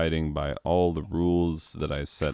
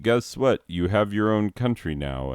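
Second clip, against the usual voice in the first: higher-pitched, mock-cheerful big news; breezy mock announcement; 4 semitones higher than usual. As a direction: imitate a ruler breezily handing out news. British voiced announcing a country.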